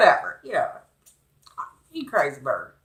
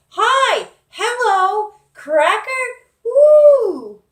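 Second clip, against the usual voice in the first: high squawky parrot greeting, much louder; 10 dB louder, much slower than usual. Retold or imitated. The parrot greeting the boy, a loud high squawk. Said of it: "the bird was like".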